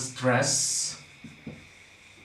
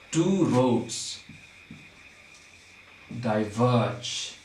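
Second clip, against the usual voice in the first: measured line reading; 2 semitones lower, much slower than usual. Shown as a demonstration. Teacher reads the first line to find syllables, measured reading. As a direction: read it out word by word, long pause before "diverge". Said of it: "Let's take the first line".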